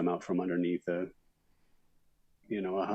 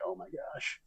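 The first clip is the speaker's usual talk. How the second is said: high, breathy oh my gosh; overwhelmed gasp; 11 semitones higher, 10 dB quieter than usual. Retold or imitated. Overwhelmed when work suddenly arrives.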